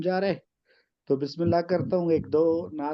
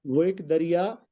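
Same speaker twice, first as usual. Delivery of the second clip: poem recitation. Acted. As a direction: recite the couplet with weight. Recites ghazal couplets.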